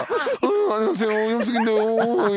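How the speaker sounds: high, bright impersonation of Hyun-sook; Hyun-sook impression. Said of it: "현숙 성대모사".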